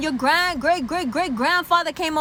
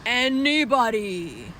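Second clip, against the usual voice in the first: proud Irish; 4 semitones lower, much slower than usual. Acted. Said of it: "The Irish are like".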